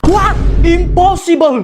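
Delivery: high loud what, then impossible; shocked disbelief. Acted. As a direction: jolt back in disbelief. Shocked reaction to the news. (kaget tak percaya)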